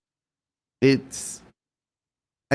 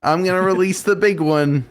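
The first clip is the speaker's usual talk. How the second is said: mock big reveal; 8 semitones higher, 3 dB louder than usual. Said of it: "This is my big one".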